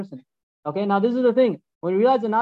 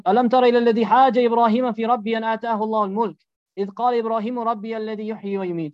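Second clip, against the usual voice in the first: Quran recitation; much faster than usual. Acted. The preacher quotes the verse to the congregation in a fast recitation. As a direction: recite the verse in a quick flowing chant.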